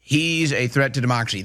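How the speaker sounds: quick mocking repeat of the slogan; mocking parrot. Parroting the Democrats' line, quick and mocking. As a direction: rattle it off like a tired slogan. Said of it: "how do you even respond to that".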